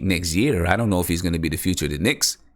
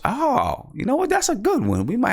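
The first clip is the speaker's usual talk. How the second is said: excited. Real, not acted. Viewer suggests a super chat rule.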